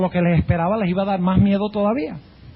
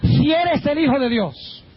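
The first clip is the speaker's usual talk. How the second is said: raised, slow challenge; acted doubt; 8 semitones higher, slower than usual. Devil challenging Jesus in the desert, doubting. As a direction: lean on the condition, drawing it out. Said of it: "Expresó duda".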